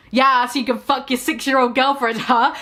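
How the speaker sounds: a touch of sarcastic jab at Lupin; mock sarcastic shout. Narrator sneers at Lupin with mild sarcasm. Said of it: "I shouted sarcastically".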